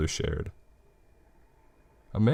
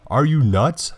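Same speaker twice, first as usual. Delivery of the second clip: loud, high furious shout; mother yelling in anger; angry shout; 7 semitones higher, 6 dB louder, slower than usual. Retold or imitated. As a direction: snap at your kid in alarm. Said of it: "she shouts at me angrily".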